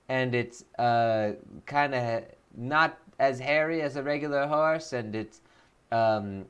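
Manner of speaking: lightly voiced elf lord, slowed at times; a hint of a pompous elf candidate; mild mock-grand elf speech; Gallant Galadriel voice. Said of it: "a brand new Voice of Nick voice".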